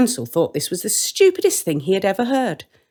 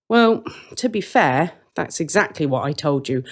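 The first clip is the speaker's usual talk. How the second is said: smug. Acted. Brother gloating to his sister, smug. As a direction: savour the told-you-so.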